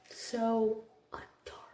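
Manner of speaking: soft unvoiced whisper, almost to herself. Real, not acted. Teacher gushing over a kindergartner, whispered fondly. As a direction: breathe it out as a fond whisper. Whispered then repeated aloud.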